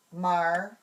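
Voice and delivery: "Marker" split in two loud syllables, long gap between; just the parts. Shown as a demonstration. Teacher hiding the word from students, saying just the parts. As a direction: say "Marker" as mar, then ker. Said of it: "I'll just say the parts".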